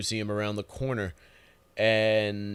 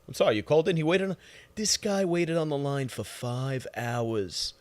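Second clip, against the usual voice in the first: bad Francesa impression. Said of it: "I do a horrible Francesa".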